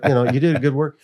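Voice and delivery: high, loud reassuring God voice; booming comforting voice of God; voicing God. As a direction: play God soothing him, lifted and loud. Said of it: "God's like".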